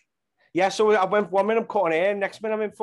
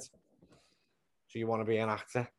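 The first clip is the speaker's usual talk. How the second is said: lower, slow, doubting customer voice; sneering barber customer; 7 semitones lower, 7 dB quieter, slower than usual. Retold or imitated. Barber customer doubting his acting dream, lower and slow. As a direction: drop it down and drawl the question slowly. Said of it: "and he went".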